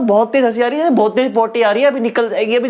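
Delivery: mock urgent, as if something is about to burst out; hammed-up desperate friend; urgent holding-it-in. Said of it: "वो हंसी तो ऐसे बोलते हैं". (मज़ाकिया बेचैनी, जैसे रोक न पा रहे हों)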